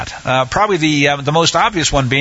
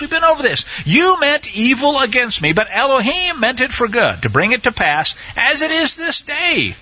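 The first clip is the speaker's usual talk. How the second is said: higher, gentle reassuring Joseph; kind reassurance; 10 semitones higher than usual. Acted. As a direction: comfort your frightened brothers, higher. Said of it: "he spoke kindly to them".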